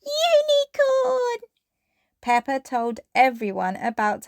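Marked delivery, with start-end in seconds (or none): 0.0-1.5 high, slow excited cry; drawn-out cry. Acted. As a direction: stretch it out with delight. Peppa's wish shouted out.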